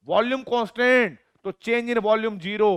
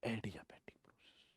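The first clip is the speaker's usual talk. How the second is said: whispered, much softer term; whispered as a teaser; 11 semitones lower, 24 dB quieter than usual. Shown as a demonstration. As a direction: breathe the term like a secret. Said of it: "क्या बोलूंगा मैं?".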